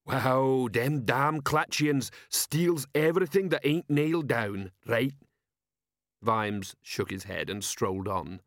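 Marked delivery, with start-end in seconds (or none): 0.1-5.1 dim troll, slightly higher; slow-witted troll sergeant. Acted. Troll sergeant asking his commander, dim troll voice.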